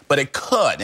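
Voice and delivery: "could" leaned on and held; stress on could. Real, not acted. Investigator hedging on a robbery theory, stressing "could". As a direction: underline "could" with the voice, then pause. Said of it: "I underline the word could".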